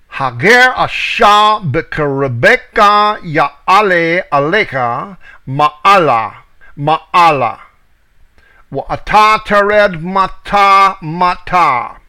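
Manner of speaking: reads Hager asha b'kerebeka ya'ale alecha ma'ala in slow, careful Hebrew; the Hebrew verse read slowly and clearly, one word at a time. Shown as a demonstration. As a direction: sound out each Hebrew word deliberately, slowly. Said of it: "I will now read in the Hebrew".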